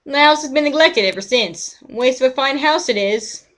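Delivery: put-on a folksy old neighbour lamenting; old man NPC.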